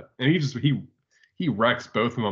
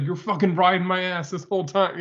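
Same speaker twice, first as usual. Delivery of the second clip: put-on South Philly accent; 6 semitones higher than usual. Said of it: "he's from, like, South Philly".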